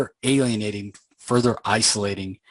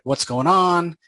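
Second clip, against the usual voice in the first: angry protest; 4 semitones higher than usual. Retold or imitated. Betrayed undercover angel confronting heaven, angry and raised. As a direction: demand answers, hurt and fed up. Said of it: "obviously he's angry".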